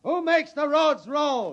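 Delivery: slow, rousing call to the crowd; a leader calling for the crowd's answer; rallying shout. Acted. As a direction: whip up the room.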